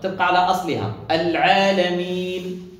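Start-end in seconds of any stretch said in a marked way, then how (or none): 1.1-2.7 العالمين chanted with its final ee held two counts; two-count madd. Shown as a demonstration. Teacher demonstrates first ruling, العالمين with short two-count stretch. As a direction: keep the closing "meen" of العالمين to its natural length. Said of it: "حركتين فقط".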